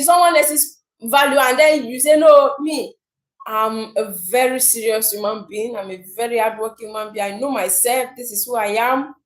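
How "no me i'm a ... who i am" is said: mock self-praise. Voicing self-praising procrastinator.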